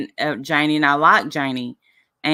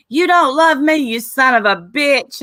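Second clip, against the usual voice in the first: high, louder mock tirade; imitated screaming; 7 semitones higher, 4 dB louder than usual. Retelling Shannon screaming on a panel, high mock yell. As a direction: yell it high like someone cussing you out. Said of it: "screaming at me".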